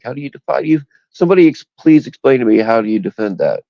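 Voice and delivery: exasperated. Real, not acted. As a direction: pitch jumps up in incredulous appeal. Ranting, demands an explanation.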